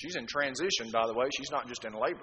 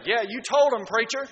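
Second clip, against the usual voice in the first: raised, higher amen-corner call; cheering churchgoer; 7 semitones higher, 7 dB louder than usual. Acted. Listener cheers on the preacher from the audience, approving shout. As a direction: egg the preacher on, loudly. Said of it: "someone will say".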